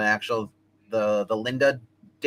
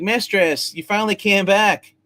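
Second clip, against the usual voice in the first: high, loud imitation of an overjoyed cry; imitated robot greeting; 8 semitones higher, 5 dB louder, slower than usual. Robot to mistress who finally returned, imitated high, loud greeting. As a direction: call out higher and louder, mimicking the robot.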